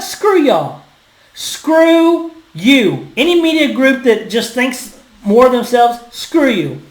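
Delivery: indignant, drawn-out telling-off; fired up, tell them off with force; heated, emphatic rebuke; angry dismissal. Real, not acted. Angry dismissal of media critics.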